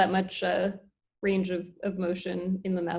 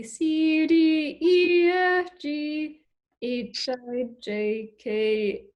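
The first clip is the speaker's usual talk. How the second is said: alligator voice; much slower than usual. Shown as a demonstration. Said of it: "try saying the alphabet in his voice".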